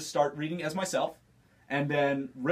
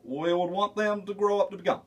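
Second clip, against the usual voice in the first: Barack Obama impression. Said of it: "Barack Obama".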